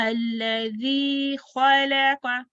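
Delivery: slow recitation with a drawn-out अल्लज़ी; measured Quran recitation. Shown as a demonstration. Teacher models the next verse, slow tajweed recitation. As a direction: recite slowly on a level note.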